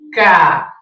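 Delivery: "Caderno" broken into ca, der, no with long pauses; syllable by syllable. Shown as a demonstration. Teacher writing the word on the board, syllable by syllable. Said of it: "Deixa eu escrever aqui".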